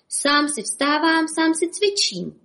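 high, slow whiny lament; self-pitying. Acted. Bob alone at his exercises, self-pitying whine. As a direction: moan it, feeling sorry for yourself. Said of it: "litoval se Bob".

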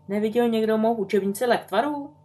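put-on high girlish question; a little sister calling out; lightly voiced young girl. A narrator's reading. Young daughter asks the house about her lost book, high and girlish.

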